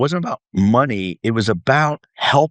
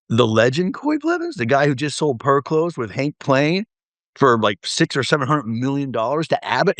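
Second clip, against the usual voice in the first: raised-pitch mock astonishment; retold disbelief; 4 semitones higher than usual. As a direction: act out stunned recognition of a legend. Retells disbelief at famous dad.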